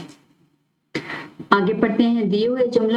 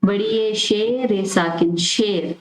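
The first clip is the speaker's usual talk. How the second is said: slow spelling out; slower than usual. Shown as a demonstration. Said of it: "आगे है शीन".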